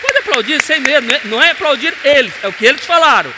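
high, loud, fast encouragement; excited shout. Real, not acted. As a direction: urge them to clap, fired up. Pastor convida a aplaudir. (grito empolgado para aplaudir)

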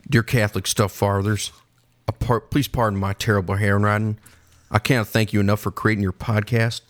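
low, measured letter-reading voice; letter writer's voice. Acted. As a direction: read it solemnly as the man who wrote it. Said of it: "do it in this guy's voice".

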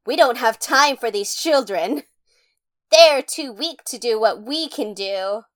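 dismissive. Retold or imitated. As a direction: imitate someone brushing off weaker allies. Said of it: "they're very dismissive of Sailor Moon".

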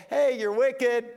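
playful hammed-up rebuke; mock stern Jesus. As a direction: scold like a stern teacher. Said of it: "Jesus saying to me".

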